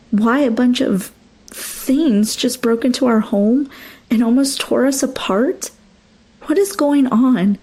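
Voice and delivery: pleading, rising frustration; angry confrontation. Acted. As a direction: demand answers, voice climbing. Wife confronting husband angrily.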